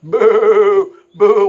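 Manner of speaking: loud, high jeering boos; mocking boos; mock booing. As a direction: boo him like a heckling family. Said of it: "they're always going".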